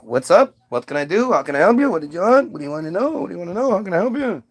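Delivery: a touch of fawning eagerness; eager to please, piling on questions; over-eager helper. Acted. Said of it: "can you stop talking like that".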